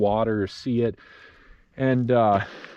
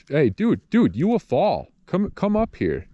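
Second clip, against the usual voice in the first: alarmed calling out; 7 semitones higher than usual. Real, not acted. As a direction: call him back from the edge, alarmed. Child walks to cliff edge.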